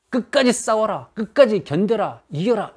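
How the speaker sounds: slow, emphatic rallying commands; challenging exhortation. Acted. Preacher voices disciples urging believers on, challenging exhortation. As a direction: urge them slowly to hold out. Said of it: "도전합니다".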